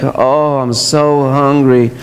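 slow, moaning hungry complaint; hammed-up faint hunger. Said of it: "Just hoping that Kylie asks".

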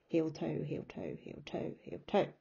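heel, toe in steady paired beats; walking rhythm. Shown as a demonstration. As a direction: step out heel, toe evenly. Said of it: "you'll hear it".

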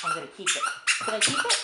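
very high squeaky pretend dog voice; voicing the dog. Voicing the dog's thoughts.

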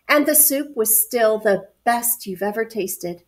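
measured picture-book reading; story narration. A narrator's reading. Adult reading a picture book to children, story narration. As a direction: read it clearly to young children.

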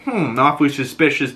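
sly, mocking echo. She mocks the chief, sly echo. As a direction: throw his words back at him. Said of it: "turns it back on him".

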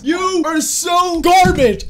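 taunting. Real, not acted. Taunting beaten opponents.

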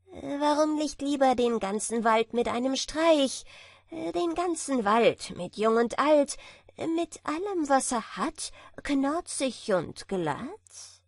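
high, cocky bragging; boastful tailor. A narrator's reading. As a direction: brag it sing-song. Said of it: "fragte das Schneiderlein". (prahlerisches Schneiderlein)

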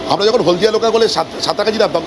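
usual speaking voice

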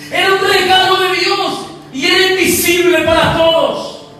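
ordinary delivery

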